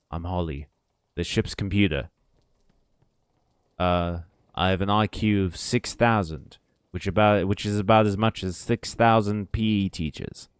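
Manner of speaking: understated ship's computer impression; Holly. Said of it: "What's the red dwarf voice?".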